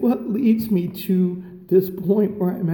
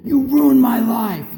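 mock accusing kid; 4 semitones higher, 5 dB louder than usual. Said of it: "I got this one".

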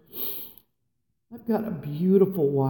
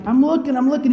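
mock flustered; 6 semitones higher, 5 dB louder, faster than usual. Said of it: "I'm like".

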